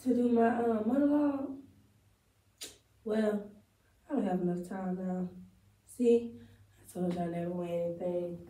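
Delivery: lightly acted disappointed winner; monologue take two. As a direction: deflate as she finds she won nothing. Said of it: "take two".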